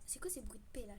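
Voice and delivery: hushed, breathy aside; whisper. Real, not acted. Gamer hears strange noises in the game, whispered aside. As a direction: whisper it to yourself, puzzled.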